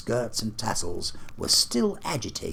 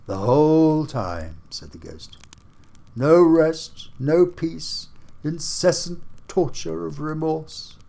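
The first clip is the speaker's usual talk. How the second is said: higher, louder, lamenting spirit; anguished ghost; 7 semitones higher, 6 dB louder than usual. Acted. Marley's ghost laments to Scrooge, anguished and loud. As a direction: wail your endless doom. Ghost speaks in read story.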